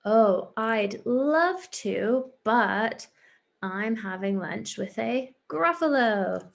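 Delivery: slow, sweetly drawn-out mouse; mouse reply. Acted. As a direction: mouse savouring the big reveal. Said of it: "What does the mouse say?".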